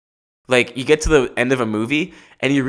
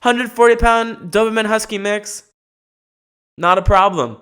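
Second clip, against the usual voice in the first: higher, gentle reassuring voice; calm the dog down kindly; mock-soothing high voice to a dog; 8 semitones higher, 3 dB louder than usual. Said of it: "And I go".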